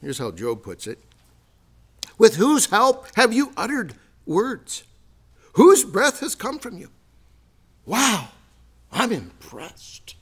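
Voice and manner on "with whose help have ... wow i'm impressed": sarcastic awe. Retold or imitated. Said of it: "the sarcasm home".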